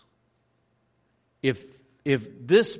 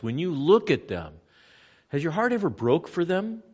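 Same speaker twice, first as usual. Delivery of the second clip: fervent preaching. Real, not acted. Preacher at the holy site, impassioned. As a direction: press the listeners earnestly.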